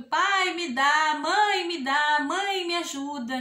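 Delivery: mild imitation of a child pleading, drawn out; child begging. Imitating a needy child asking parents for money, mildly pleading. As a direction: lightly play a kid begging mom and dad. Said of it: "como se fosse uma criança que tá pedindo".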